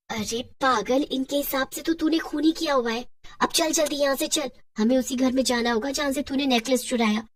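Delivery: worried witch, a touch animated; lightly acted witch talk; lightly voiced witch. Witch urging her friend to hurry along, lightly worried.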